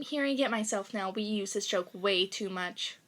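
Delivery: unvoiced whispered aside; whispering. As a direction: whisper it to yourself.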